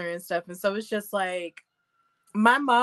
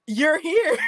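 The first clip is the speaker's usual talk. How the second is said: higher, laughing through the words; 8 semitones higher than usual. Real, not acted. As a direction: laugh it out in disbelief. Laughing at her own excitement.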